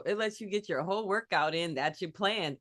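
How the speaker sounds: mock ad read with a lilt; commercial voice. Co-host echoes the workout pitch like an ad, light commercial voice. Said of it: "That sounds like a commercial".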